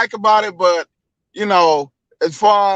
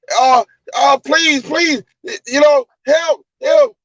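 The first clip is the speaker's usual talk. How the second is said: mild pleading cry, pitched up; mock screaming; 3 semitones higher than usual. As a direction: imitate a hurt man begging for help, half-hearted. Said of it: "He's screaming like".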